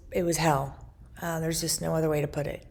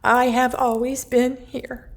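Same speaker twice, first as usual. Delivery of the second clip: louder emphatic declaration with rising intensity; pounding insistence; 5 semitones higher, 5 dB louder than usual. Retold or imitated. Mother's presence announcing itself, loud and insistent. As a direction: press it out like a pounding heart. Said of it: "like, pounding".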